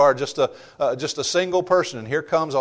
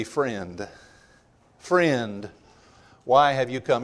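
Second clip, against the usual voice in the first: hurt tenderness; 3 semitones lower, 3 dB quieter, much slower than usual. Acted. Jesus gently addresses betrayer Judas.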